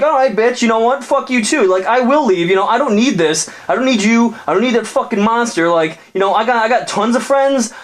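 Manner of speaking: very high, hammed-up huffy bro; hurt jock. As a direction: storm off in a high squeaky voice. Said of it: "the dude's like".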